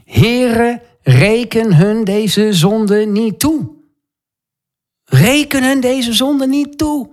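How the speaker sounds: high, drawn-out cry without much volume; retold loud cry. Preacher voicing Stefanus praying for his killers on his knees, retold cry. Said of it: "riep hij met luide stem".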